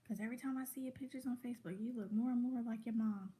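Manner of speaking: a hint of a warning uncle; mock stern uncle warning; imitating uncle. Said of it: "my uncle's like".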